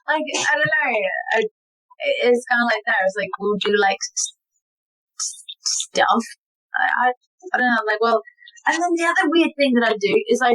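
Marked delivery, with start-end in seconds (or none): 3.4-6.2 awkward stage banter. Retold or imitated. Acting stalled stage banter.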